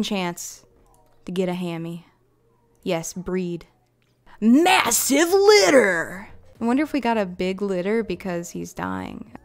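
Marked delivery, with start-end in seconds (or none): 4.4-6.3 slow, loud, high triumphant call; excited cheer. Real, not acted. Player cheering the huge litter of puppies. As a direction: draw it out in triumph.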